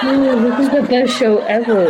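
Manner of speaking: helplessly amused, laughing while speaking; real laughter. Real, not acted. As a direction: talk through giggles. Helpless giggles at the silly voice.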